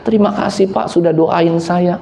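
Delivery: mildly acted weepy gratitude; tearful thanks. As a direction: act out a driver thanking through tears. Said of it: "dia nangis terseduh".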